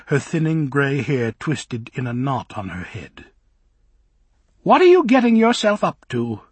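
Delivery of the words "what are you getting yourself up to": high, loud cry of a fussy nurse; startled old minder. Acted. Old minder catching the girls in the garden, high and loud. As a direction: call out like a scandalised nanny.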